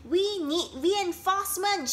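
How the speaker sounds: high, loud call for reinforcements; shout for help. A narrator's reading. Pig shouting for help while the swing hangs dangerously, high and loud. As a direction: yell it over to the others. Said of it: "shouted Pig".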